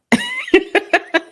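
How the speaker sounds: a high, choked little laugh through tears; teary laugh. Real, not acted. Mother telling her son's story, laughing through tears.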